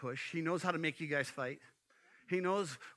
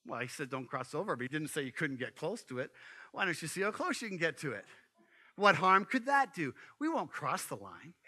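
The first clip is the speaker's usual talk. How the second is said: sly Satan; 2 semitones lower than usual. Acted. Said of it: "And Satan says".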